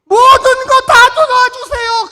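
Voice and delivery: high, loud, slow whiny plea; mock-whiny plea for help with everything; mocking the junior pastor. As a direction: ham up the pleading caller. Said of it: "그 후배가 전화할 때 내 마음이 불편했어요".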